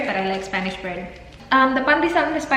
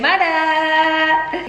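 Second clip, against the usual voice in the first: excited; 5 semitones higher, 5 dB louder, much slower than usual. Real, not acted. Excited announcing the bread.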